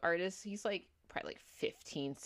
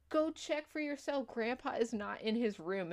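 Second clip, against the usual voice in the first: higher mock-kid insistence; imitating insistent kid; 5 semitones higher than usual. Kid urges parents to check on Grandpa, mock-insistent. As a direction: argue back as a disbelieved kid.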